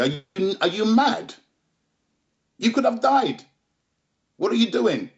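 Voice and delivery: put-on reliving the moment he lost it with the young fighter; retold furious telling-off. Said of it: "I went, I went ballistic".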